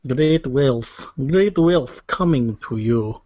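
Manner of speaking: slow mock-Russian echo; imitated Russian accent. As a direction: repeat it back in a put-on Russian accent. Echoing the player's Russian accent.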